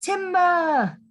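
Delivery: high little cry of warning; squeaky warning cry; tiny voice crying out. A narrator's reading. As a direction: call timber in a small high voice. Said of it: "A tiny voice cried".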